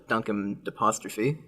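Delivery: "Duncan apostrophe" slow and run together; slightly slurred words. Shown as a demonstration. Friend recalling the running joke, "Duncan apostrophe" loosely run together. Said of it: "sounds less and less like words".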